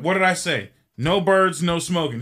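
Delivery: hammed-up scolding captain; angry pilot. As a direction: scold her like a fed-up captain. Pilot finds the bird, scolds.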